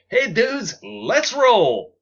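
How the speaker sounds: high, loud party yell; excited shout. Acted. Lacey calls from honking RV.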